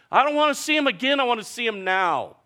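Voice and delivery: very high, loud, fast outcry; grieving sister rejecting comfort, high and loud; grieving protest. Retold or imitated. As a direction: cry out against comfort. Grieving retort.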